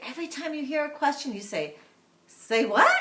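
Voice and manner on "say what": loud chanted call-back; loud playful response; kids' call-back. Shown as a demonstration. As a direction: call it out like the kids answering. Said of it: "you might have the kids say".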